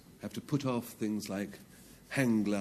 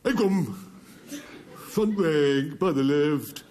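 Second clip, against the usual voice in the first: loud, high parade-ground shout; mock drill command; 6 semitones higher, 8 dB louder, slower than usual. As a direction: call it out like a drill order.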